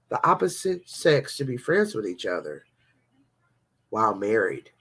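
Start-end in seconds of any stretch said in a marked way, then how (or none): 3.9-4.7 breathy aside whisper. Acted. Vlogger to viewers, a sly whisper. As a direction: drop to a whisper on the punchline.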